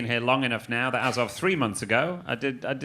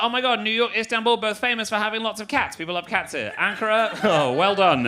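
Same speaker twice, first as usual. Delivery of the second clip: high, gushing cat-lover enthusiasm; mock excitement; 8 semitones higher than usual. Comic gushing to a Turkish audience member about cats. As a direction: overdo the delight about cats. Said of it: "I'd be like".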